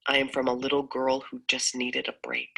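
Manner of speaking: measured, earnest poem recital; spoken-word reading of a personal poem. Acted.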